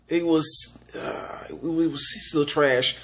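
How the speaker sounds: whispered aside; hushed verdict, barely voiced. Real, not acted. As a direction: drop to a whisper.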